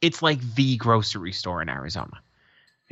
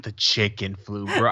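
with conviction; 3 semitones lower than usual. Retold or imitated.

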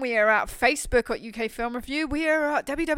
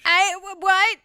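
high, loud, stunned "what?"; shocked disbelief; 8 semitones higher, 6 dB louder, slower than usual. Real, not acted. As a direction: blurt it out in disbelief. Shocked at sixteen hours.

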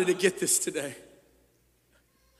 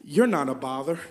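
soft, gentle Jesus voice; tender reassurance; 4 semitones lower, 3 dB quieter than usual. Acted. Jesus gently comforting the discouraged listener. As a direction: reassure them softly. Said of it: "Jesus steps in and says".

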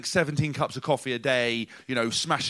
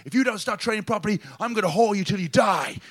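high, loud mock yell of the coach; imitated shout; 7 semitones higher, 5 dB louder than usual. Mimicking the angry coach yelling at the squad, high and loud. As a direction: ham up the furious coach's threat. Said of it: "he shouted".

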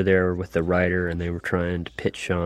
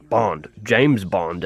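Bond voice; much slower than usual. Retold or imitated. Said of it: "I'm like".

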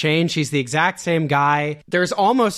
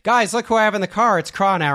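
mock excited announcement; 7 semitones higher than usual. Showing off Robin to GIs.

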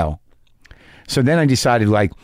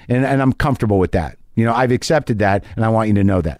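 polite, scathing calm to a call agent; calmly accepting, smiling through contempt; new calm tone; 3 semitones higher than usual. Retold or imitated. Caller to Time Warner agent, composed polite disdain. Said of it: "and my tone is this".

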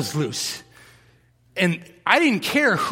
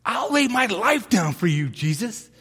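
Peter's bold vow, pitched higher; eager Peter; 4 semitones higher than usual. Retold or imitated. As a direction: swear it like a cocky disciple. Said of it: "what does Peter say".

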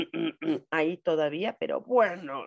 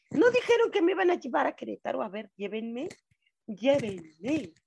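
playful mock complaint; 4 semitones higher than usual. Real, not acted. Playful complaint about Querétaro.

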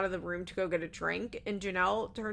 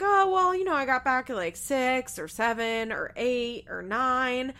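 mock evasive; 4 semitones higher, 5 dB louder than usual. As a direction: imitate someone fudging the answer, drawing it out. Acting out husband's evasive answer.

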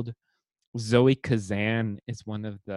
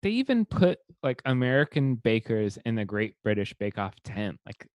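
much higher, exasperated disbelief at the American version; incredulous rant; 5 semitones higher than usual. Real, not acted. Complaining to a co-host about the American Bake Off, high incredulous rant. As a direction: pitch it up in outraged disbelief.

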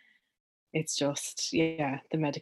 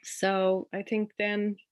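real emotion breaking through with a laugh, a little higher and louder; choked up but laughing it off; getting emotional; 5 semitones higher, 5 dB louder than usual. Real, not acted. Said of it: "Sorry, I'm getting emotional now".

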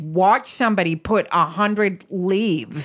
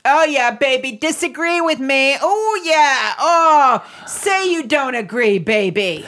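hammed-up moans of pleasure; mock aroused moaning; 3 semitones higher than usual. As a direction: tease it like fake passion. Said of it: "Like, you just get".

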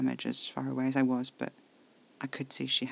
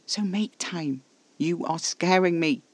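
higher, upset insistence; upset demand; 5 semitones higher, 6 dB louder, slower than usual. A narrator's reading. Scared, demanding that Casper make time, upset. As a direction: demand it with raised, alarmed voice.

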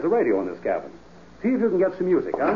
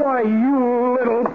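slow, drawn-out, higher and angry; furious snarl; 9 semitones higher, 4 dB louder, much slower than usual. Acted. Slapped husband snarling at his bride in fury. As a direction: snarl at her after the slap.

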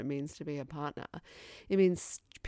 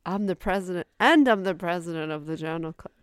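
mock pompous boast; 7 dB louder than usual. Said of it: "quoting the tirade back".

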